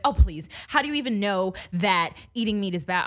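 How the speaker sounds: dismissive mock-mom retort; angry mom. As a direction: lightly imitate a mother scoffing in an argument. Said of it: "she was just angry".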